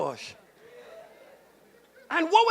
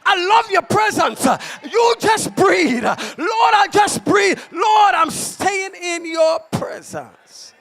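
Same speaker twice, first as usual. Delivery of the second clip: fervent prayer; 3 semitones higher, slower than usual. Retold or imitated. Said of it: "I say".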